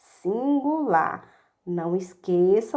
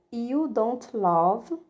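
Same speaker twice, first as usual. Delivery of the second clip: slow drill; much slower than usual. Shown as a demonstration. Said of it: "ou a forma abreviada".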